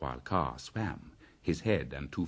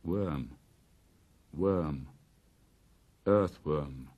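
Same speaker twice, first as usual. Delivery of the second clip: Bagheera teasing; much slower than usual. Acted. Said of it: "said Bagheera".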